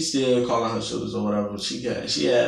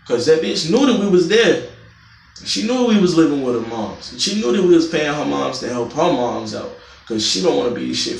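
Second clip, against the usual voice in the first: heated; 4 semitones higher, 5 dB louder than usual. Real, not acted. Angry retelling of the eviction.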